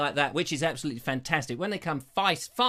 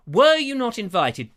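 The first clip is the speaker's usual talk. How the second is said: high, slow, mock-innocent question; a hint of a sweet young viewer asking; 8 semitones higher, 8 dB louder, slower than usual. Reading a viewer's comment in a high mock voice. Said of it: "and she says".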